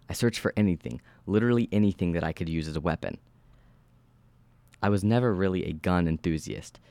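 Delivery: measured horror-story narration; steady storyteller reading. A narrator's reading. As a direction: read the story aloud with even, controlled delivery. Reads horror story aloud.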